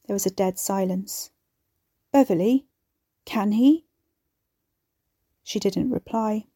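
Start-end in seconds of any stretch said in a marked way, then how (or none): 2.1-3.9 pleading. Acted. Pleading for an answer.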